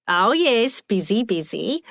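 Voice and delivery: put-on chirpy old lady. Nosy old lady chiming in.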